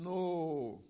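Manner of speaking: long drawn-out "no"; distant answer. Retold or imitated. Fishermen answering the Lord from the boat, distant reply. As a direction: answer as if from far off, mildly. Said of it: "from a distance".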